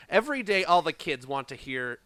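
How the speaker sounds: lightly exaggerated square white-guy reading; as white as possible. Shown as a demonstration. Podcaster reading rap lyrics, lightly put-on white-guy voice. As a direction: read rap lyrics deliberately unhip. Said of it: "read this as white as possible".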